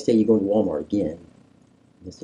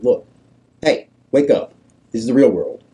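raised, direct mock confrontation; blunt wake-up call; 5 dB louder than usual. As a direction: confront them like a blunt prophet. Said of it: "he's pretty blunt with us".

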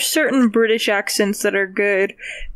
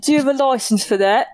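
mock British accent; 4 semitones higher, faster than usual. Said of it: "it's like a British person".

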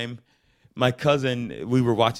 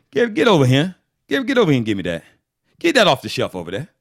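loud Southern Black dad calling his son over; Southern black accent; 3 semitones higher, 6 dB louder, much faster than usual. Shown as a demonstration. Dad calling Gary over in a loud Southern Black accent. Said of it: "you know, Southern black".

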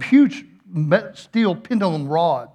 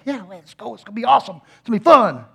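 put-on eager kid voice, building; imitated giddy kid; 3 semitones higher, faster than usual. Excited kid waiting for the ride, imitated giddiness. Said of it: "he's just all giddy".

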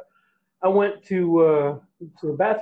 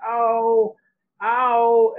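mock pained ow; 5 semitones higher than usual. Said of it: "holding her head like".

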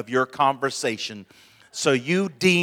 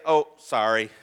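careless sorry; 4 semitones lower than usual. Shown as a demonstration. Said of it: "that's all sorry does".

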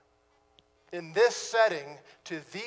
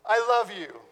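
mock tender wife. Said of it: "pat my little head and say".

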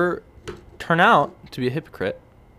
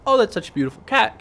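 much higher, gushing mock admirer; gushing lady; 11 semitones higher than usual. Woman in the waiting room gushing over the cat in a high mock voice. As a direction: coo over the cat like a smitten stranger.

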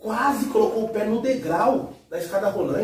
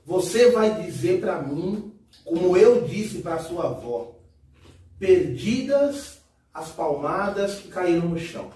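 stern mother; 3 semitones lower, slower than usual. Retold or imitated. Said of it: "ela dizia o seguinte".

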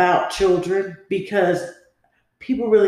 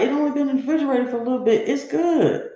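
fast, higher, rushed excuse; husband's excuse; 6 semitones higher, much faster than usual. Retold or imitated. Wife imitating her husband's hurried excuse. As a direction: rattle off the husband's excuse quickly. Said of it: "My husband be like".

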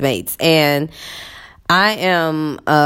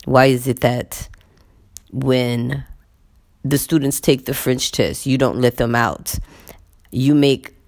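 imitating male colleague; 4 semitones lower than usual. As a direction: voice his complaint in a slightly lowered voice. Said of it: "And he says".

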